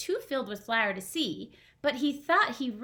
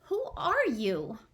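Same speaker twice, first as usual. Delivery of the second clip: slow snail voice; slower than usual. Acted. Snail asks slowly.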